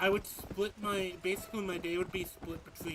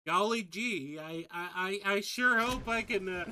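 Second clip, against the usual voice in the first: put-on louder, gee-whiz eager kid voice; wholesome 1950s kid; 3 semitones higher, 7 dB louder than usual. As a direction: parody of a squeaky-clean farm boy.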